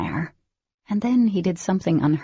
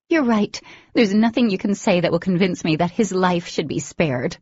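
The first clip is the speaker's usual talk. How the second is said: cold fury; 3 semitones higher, 4 dB louder than usual. Acted. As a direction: refuse him flatly and hard. Dee refuses to spare Blake.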